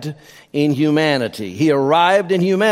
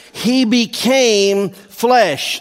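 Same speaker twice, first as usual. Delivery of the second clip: raised pitch, very slow, "became" stretched out; emphasis on became; 5 semitones higher, much slower than usual. Real, not acted. Preacher correcting the idea of merely assuming a body, emphatic "became". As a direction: hold "became" long, then set "flesh" apart. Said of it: "You're gonna hear me emphasize that over and over".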